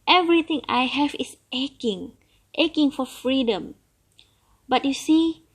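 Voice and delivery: put-on an old turtle longing for freedom; grumbling old turtle. Turtle voiced in story.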